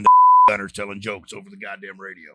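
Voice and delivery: real laugh breaking through. Real, not acted. Laughing at the memory.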